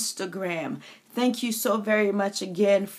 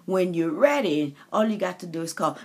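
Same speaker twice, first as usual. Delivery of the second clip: tender voice of God; 3 semitones lower, faster than usual. Acted. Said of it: "And it's God saying".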